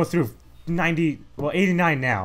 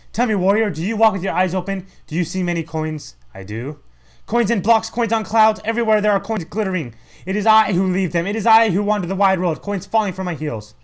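raised, louder proclamation; grand game character voice; 6 semitones higher, 4 dB louder than usual. Acted. Game character boasting to the warrior, grand voice. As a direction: boast like a mysterious coin-leaving wanderer.

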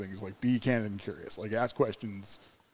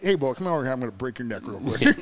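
mock Caleb Copeland; 4 dB louder than usual. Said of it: "pretty much like".

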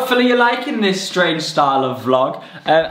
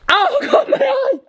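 high pained exclamation; startled yelp. Real, not acted. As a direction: yelp as the dog hits your eye. Dog hit his eye.

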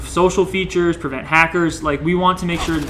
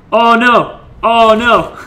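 alarmed oh no; 8 semitones higher, 9 dB louder, much slower than usual. Real, not acted. Game goes wrong suddenly.

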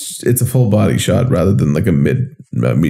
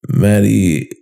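sultry narrator. Acted. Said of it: "Just add a little sultry voice to that".

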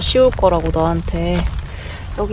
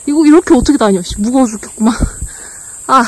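carrying heavy load; 4 semitones higher, 4 dB louder, faster than usual. Real, not acted. Hauling a heavy pack uphill.

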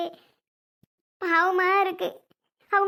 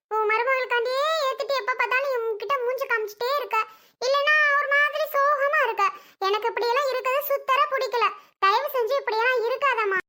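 higher, exasperated nagging; exasperated scolding; 3 semitones higher than usual. Acted. Daughter scolding her mother for moping, higher exasperated nagging. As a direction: pile on the complaints, fed up.

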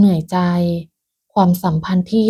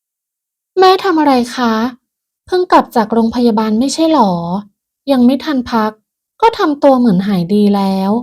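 cold; 3 semitones higher than usual. Acted. Pim questioning her sick mother-in-law, cold. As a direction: keep her at arm's length. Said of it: "แล้วพูดด้วยน้ำเสียงเย็นชา".

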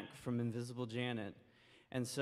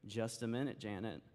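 very deliberately; 3 semitones lower than usual. Acted. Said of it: "very deliberately".

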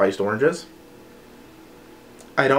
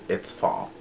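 whispered; 10 dB quieter than usual. Pretend. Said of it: "you're just like".

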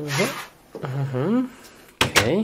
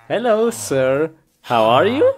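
loud, put-on courteous hello; mock-polite greeting; 5 dB louder than usual. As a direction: greet loudly with exaggerated politeness. Mock greeting while hitting something.

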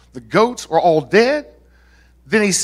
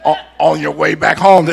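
laughing; 4 dB louder than usual. Real, not acted. Laughing at own joke.

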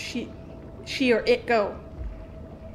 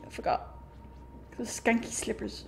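whisper; 2 semitones lower, 11 dB quieter than usual. Real, not acted. Sneaking past enemy.

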